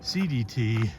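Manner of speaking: breathing hard while talking. Real, not acted. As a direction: talk between heavy breaths uphill. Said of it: "I'm a little out of breath".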